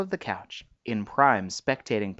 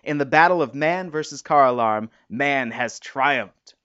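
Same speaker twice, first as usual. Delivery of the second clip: mock heroic; 2 semitones higher, 5 dB louder than usual. Husband saluting the neighbor's victory, hammed-up solemn proclamation. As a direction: declare it like a pompous war announcer, tongue in cheek. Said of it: "offering a mock salute".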